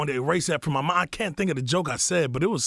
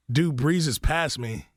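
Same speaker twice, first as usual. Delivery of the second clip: drawn out, very slow; slow dramatic retelling; 2 semitones higher, much slower than usual. Retold or imitated. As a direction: stretch it out slowly. Retelling Kevin walking past.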